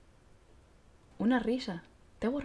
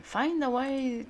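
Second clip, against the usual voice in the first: 1 drawn out reading; 7 semitones higher, 4 dB louder, much slower than usual. Acted. Dismissive reading.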